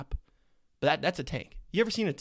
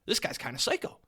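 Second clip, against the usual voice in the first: impressed whoa; 3 semitones higher, 4 dB louder than usual. Retold or imitated. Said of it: "open my eyes and go".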